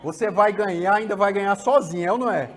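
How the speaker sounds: put-on father bribing a crying kid with a trophy; indulgent father. Shown as a demonstration. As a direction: coax the child with easy promises. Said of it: "Alguns pais fazem assim".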